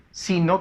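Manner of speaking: "sino" stressed on the first syllable, SI. Shown as a demonstration. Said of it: "sí lleva la mayor fuerza de voz". ("sino" con la fuerza de voz en si)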